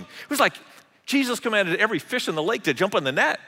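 ordinary talk

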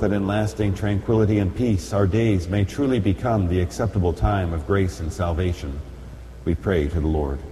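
ordinary delivery

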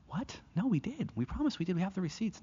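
high, frantic disbelief; pleading with the officer, voice jumping up; panicked protest. Retold or imitated. Wife panics at immigration desk.

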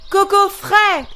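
street vendor's cry. A narrator's reading. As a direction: sing it out like a coconut-drink seller in the street. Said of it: "l'homme criait toujours".

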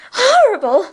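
shuddering. A narrator's reading. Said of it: "shuddering over the remembrance".

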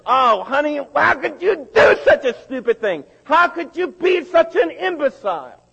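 high, loud, laughing mock scold; mocking husband. Husband scolding his wife over bounced checks, high mocking yell. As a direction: sneer at her with a sarcastic laugh.

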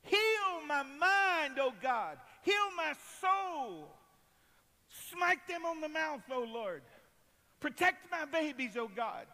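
loud, high shouted prayer; impassioned cry for healing; crying out to God. Acted. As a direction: call out each plea at full force, falling away at the end. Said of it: "I cried to the Lord".

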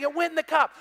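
high, loud excited call; cheering. Retold or imitated. Pastor cheering as the ball rolls into the cup. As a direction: still cheering, call out the news. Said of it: "I'm cheering".

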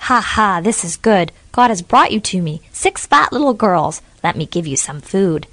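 put-on a hungry witch gloating over plump girls; cackling witch. Witch to the six lost girls, gloating cackle.

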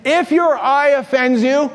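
quoting scripture. Retold or imitated. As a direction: recite Jesus' words slowly and deliberately. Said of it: "Jesus says".

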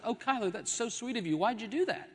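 acted delighted surprise, rising at the end; shocked and surprised. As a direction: imitate a sweetly surprised wife. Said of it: "she's shocked and surprised".

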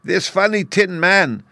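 slow, high squeaky queen; tiny regal mouse voice, drawn out. A narrator's reading. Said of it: "she answered".

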